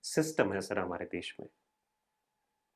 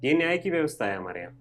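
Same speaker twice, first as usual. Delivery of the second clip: quick, higher indignant challenge; 4 semitones higher, 3 dB louder, faster than usual. Acted. Student questioning the country's justice system, indignant. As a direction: throw it out as an outraged question.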